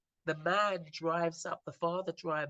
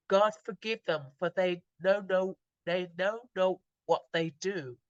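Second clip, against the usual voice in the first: loud, raised plea to God; retold outcry; 5 dB louder than usual. Dying father pleads for his killers' forgiveness, retold outcry. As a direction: cry out a prayer in a retelling. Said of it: "he screams out".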